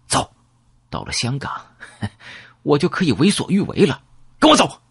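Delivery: breezy swagger with a laugh, ending high; confident rescuer, laughing it off; cocky and carefree. Acted. Rescuer waves the gun and urges narrator away, cocky with a laugh. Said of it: "潇洒地摆动了一下枪口".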